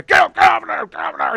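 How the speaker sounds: high, loud bark to clear the stools; shouting barkeep clearing seats; shooing shout. Acted. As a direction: chase the regulars off. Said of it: "he slaps them".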